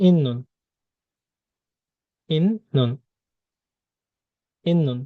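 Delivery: "ইন্নুন" with a long double n, falling; nasal assimilation. Shown as a demonstration. Teacher drilling the changed sound, nasal assimilation. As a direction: linger on the n in "ইন্নুন". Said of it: "এটার উচ্চারণ হবে".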